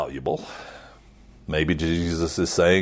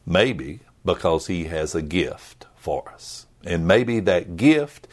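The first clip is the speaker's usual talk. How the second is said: hushed gentle whisper; 2 semitones lower than usual. Acted. Preacher hinting at Jesus' gift, whispered. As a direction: let it drop to a tender whisper.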